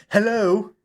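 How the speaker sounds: high, loud call into the dark. A narrator's reading. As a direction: call out, unsure, into the night. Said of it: "She felt foolish calling out".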